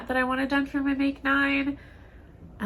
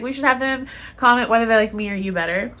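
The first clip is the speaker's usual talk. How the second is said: laughing. Retold or imitated. Joking prompt, laughing.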